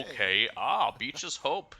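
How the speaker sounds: lightly mimicking the game character's line; a hint of the slow smith voice; imitating the smith. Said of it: "All he had to say was".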